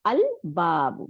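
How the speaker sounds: slow আল বাবু with a distinct l before a single b; আল বাবু said slowly, lam kept separate; clearly sounded lam. Shown as a demonstration. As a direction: pronounce the l of আল, then an undoubled b in বাবু. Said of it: "লামটা উচ্চারণ করলাম এবং বা double হয় নাই".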